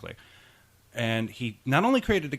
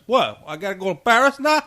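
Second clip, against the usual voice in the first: high shouted disbelief; shocked shout; 11 semitones higher, 9 dB louder than usual. Acted. An agent told he must fly to Paris, high shocked shout. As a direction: yelp in outrage at the sudden order. Acted reply in another voice.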